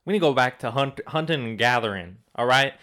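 light put-on Southern accent, ranting; a hint of a Southern accent for a mock rant. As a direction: play a Southern conspiracy ranter in a mild Southern accent. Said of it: "talking in a Southern accent".

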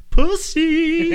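high, loud squawked yell; coconut radio yell. Retold or imitated. The professor's coconut radio blurting out, high and loud. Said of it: "in his mind it just goes".

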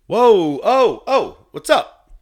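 loud, high-pitched retold whoa; startled outcry. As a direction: yelp it like you've been suddenly cut off. Acts out being cut off onstage.

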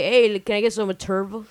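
imitating an American-accented drink order, Materva with English R; gringo accent. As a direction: ask casually in a gringo accent. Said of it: "And John would just say".

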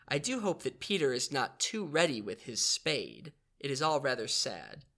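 measured read-aloud narration; story narration. Acted. Narrator reading Peter Pan to the others, storytelling voice.

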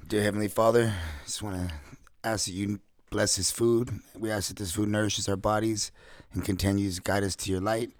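earnest mealtime prayer, steady and firm; solemn family blessing. Real, not acted. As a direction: pray sincerely over the food. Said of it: "Give us the prayer".

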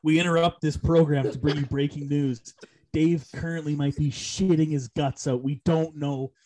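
mock announcer cutting in; hammed-up breaking news read; news bulletin voice.

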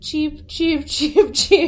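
high chirpy bird voice; cartoon bird voice. Bird noises for no news.

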